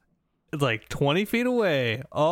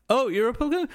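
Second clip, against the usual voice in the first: mock disgusted British official; 11 semitones higher, much faster than usual. Official mocks friend, mimicked.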